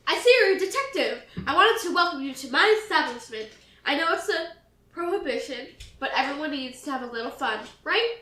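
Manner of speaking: loud, jovial host with a laugh; cheerful speakeasy owner. Acted. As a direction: welcome them like a chuckling barman. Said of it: "He seems oddly cheerful".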